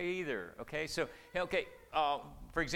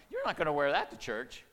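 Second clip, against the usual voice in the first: put-on parent to child; 6 dB louder than usual. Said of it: "that's a parent talking to a child".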